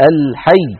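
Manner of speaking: "الحي" with the doubled yaa pressed; pressed shadda. Shown as a demonstration. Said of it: "بل نقول".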